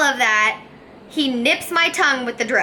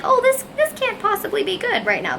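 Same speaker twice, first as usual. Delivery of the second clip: inner panic; 9 semitones higher than usual. Retold or imitated. Inner panic in the dental chair.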